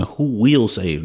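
"will" stands out as a certainty; stress on WILL. Real, not acted. Preacher correcting "can" to "will", stressed WILL. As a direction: lean firmly on "will" in "who will save". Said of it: "not who can save".

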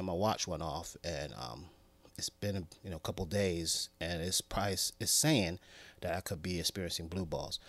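low, soft sheepish mumble. Acted. Man explaining watch alert to girlfriend, soft sheepish mumble.

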